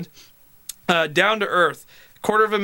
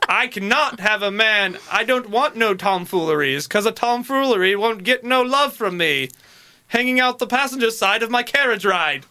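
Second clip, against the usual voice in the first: lightly put-on old-time dater; mock declaration from a bygone lonely-heart; sixteen-hundreds dater; 3 semitones higher than usual. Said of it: "back in the sixteen hundreds".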